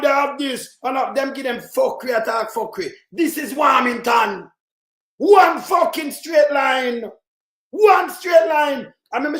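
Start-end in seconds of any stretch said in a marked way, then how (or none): 5.2-8.9 slow, hammered words, each one punched; emphatic rant. Real, not acted. Ranting vlogger to viewers, slow and emphatic. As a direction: spell it out slowly in anger.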